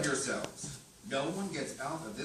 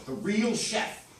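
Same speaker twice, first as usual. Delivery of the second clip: laughing; 4 semitones higher, 5 dB louder than usual. Real, not acted. Laughing while pitching show ideas.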